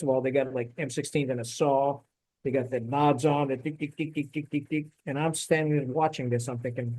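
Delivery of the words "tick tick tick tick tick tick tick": soft, rapid-fire tick noises; quiet, even run of ticks; imitated ticking. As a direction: mimic small mechanical ticks under your breath. Imitates gear clicking, robot-like guards.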